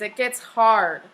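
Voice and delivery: slow, firm, word by word; slow emphatic repeat. Shown as a demonstration. Teacher correcting a student, slow and firm. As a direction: drive the point home slowly.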